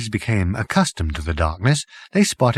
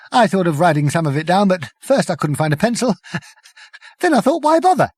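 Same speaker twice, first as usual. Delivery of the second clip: fast, high, laughing; giggly; 9 semitones higher, 4 dB louder, faster than usual. Acted. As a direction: giggle the words out. Prack giggling.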